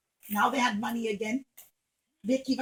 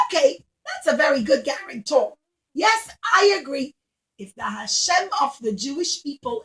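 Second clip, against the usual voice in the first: grand rich lady; 6 dB louder than usual. Acted. Rich Roman lady welcoming Rabbi Akiva, loud and gracious. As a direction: greet him like a generous grand lady.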